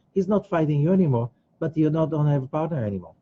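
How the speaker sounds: ordinary talk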